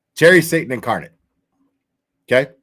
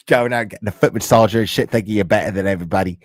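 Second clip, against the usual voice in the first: bad English accent; 7 semitones lower, faster than usual. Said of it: "I just do a terrible fucking English accent".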